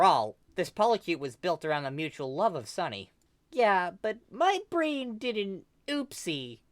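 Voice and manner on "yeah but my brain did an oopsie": sheepish. Acted. Kel sheepishly explaining.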